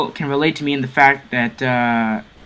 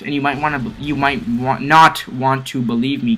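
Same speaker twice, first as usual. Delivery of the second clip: restarting the phrase, tripping on "want"; stumble, then correct with a firm "not"; stumbling over words. Real, not acted. Vlogger warning viewers they won't believe him, stumbling. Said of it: "God, I'm stutter-, stuttering".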